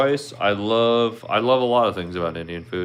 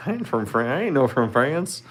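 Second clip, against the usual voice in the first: mock French accent; 5 semitones higher than usual. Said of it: "I don't have no French accent".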